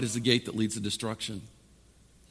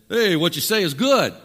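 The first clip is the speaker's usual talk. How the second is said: crowd agreeing; 4 semitones higher, 5 dB louder than usual. Acted. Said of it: "Then all the people said".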